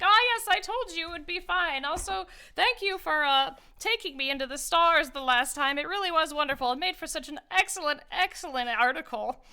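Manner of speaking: high, loud, eager little gnome voice; excited small gnome. Acted. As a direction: chirp it out like a delighted tiny scholar.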